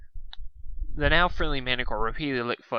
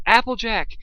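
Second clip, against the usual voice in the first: high, loud cry of panic; desperate panicked yell; panicked scream; 10 semitones higher, 5 dB louder than usual. A narrator's reading. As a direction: scream her name in terror. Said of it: "he screamed in panic".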